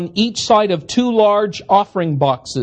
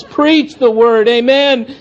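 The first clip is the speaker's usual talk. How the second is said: nightmare echo; 3 semitones higher, slower than usual. Retold or imitated. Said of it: "cacophony of response".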